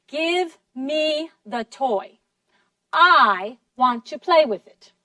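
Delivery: slow demand with "I" hit hardest; stress on I. Shown as a demonstration. Child tells brother to hand over the toy, forceful "I". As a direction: punch "I" in "I want to play". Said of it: "se pronunció con más fuerza".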